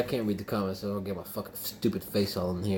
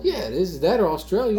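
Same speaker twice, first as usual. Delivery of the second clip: high, loud, heated insistence; getting angry; 7 semitones higher, 5 dB louder than usual. Real, not acted. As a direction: argue back, raising your voice. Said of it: "you getting angry".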